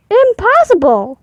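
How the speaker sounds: dad refusing. Acted. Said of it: "said his dad, shaking his head".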